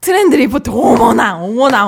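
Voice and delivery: husky, gravelly, raspy middle-aged woman character voice. Asked what feel they want, the performer reads the line in a gravelly auntie voice. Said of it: "좀 걸걸한 어 아주머니 같은 경우부터 해".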